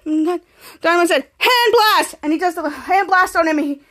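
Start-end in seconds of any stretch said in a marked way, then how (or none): 1.4-2.1 higher, punched battle cry; acted attack call.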